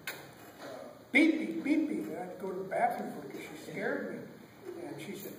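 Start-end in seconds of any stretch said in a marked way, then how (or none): 1.1-2.0 loud, high mock yell; child's yell. Scared child needing the bathroom, yelling. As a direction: yell it like a scared little kid.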